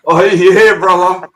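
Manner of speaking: loud, high, laughing cheer; laughing agreement. Real, not acted. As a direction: whoop your agreement through a laugh. Laughing, hearty agreement with cohost.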